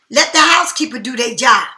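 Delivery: quoting a friend's bossy call; mock shout. Friend telling her to leave the bed for the housekeeper, mock shout. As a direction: bark it like someone giving orders. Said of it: "you be telling me".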